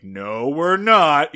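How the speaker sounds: slow, firm mock annoyance; dragged-out, mildly angry retort; still pissed. Andy correcting Barney, still pissed. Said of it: "He's still pissed".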